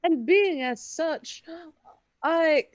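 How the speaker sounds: haughty, measured bartering tone; snooty voice. Acted. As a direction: look down your nose while haggling. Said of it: "I wanna absorb the snooty voice to barter".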